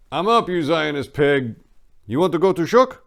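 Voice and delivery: teasing friend voice. Acted. Bandit teases his Israeli friend, playful and loud. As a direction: rib your buddy as you get up.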